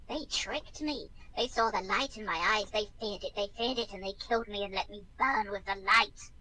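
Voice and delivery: rasping dead voice, rising bitterness; the betrayed dead swelling with grief. Acted. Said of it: "emits a rasping voice".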